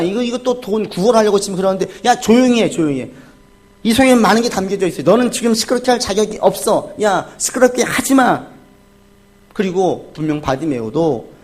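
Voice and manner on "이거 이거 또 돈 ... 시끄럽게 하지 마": raised-pitch mock rebuke; indignant retold telling-off; scolding. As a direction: act out the crowd hushing a nuisance beggar. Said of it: "꾸짖으면서 조용히 시켜요".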